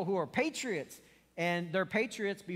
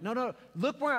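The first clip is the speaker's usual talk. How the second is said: frustrated; 7 semitones higher, 4 dB louder than usual. Retold or imitated. Dad frustrated at kids not looking.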